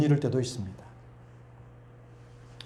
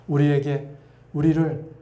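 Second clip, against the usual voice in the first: normal talking voice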